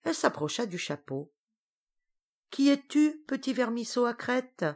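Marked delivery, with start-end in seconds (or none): 2.5-4.7 lightly higher, curious witch voice. Acted. Witch queen leaning in to question the worm. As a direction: peer at the worm, mildly amused.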